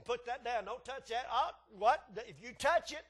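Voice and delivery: lightly voiced stern warning to a toddler; threatening parent. Parent warns a toddler reaching for things, mildly stern. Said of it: "now it's threatening".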